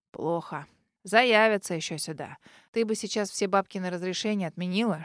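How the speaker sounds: put-on an old house spirit grumbling advice; domovoy's voice. House spirit advises the girl, low and grumbling.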